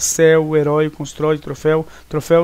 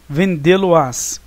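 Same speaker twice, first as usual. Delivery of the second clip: bem devagar, sílaba por sílaba; 3 dB louder, much slower than usual. Shown as a demonstration. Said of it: "Nenhuma deve ser acentuada".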